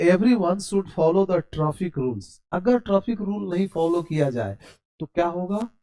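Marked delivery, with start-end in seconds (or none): 0.1-2.3 slow, clear English example; slow model sentence. Shown as a demonstration. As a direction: read it slowly for students. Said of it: "अब यहाँ देखिएगा". (धीमा, साफ़ वाक्य)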